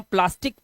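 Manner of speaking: प्लास्टिक with a hard k at the end; ending in a k sound. Shown as a demonstration. Teacher modelling the right ending for students, said crisply. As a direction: end प्लास्टिक on a clear k, not s. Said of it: "इसे हम प्लास्टिस नहीं बोलते".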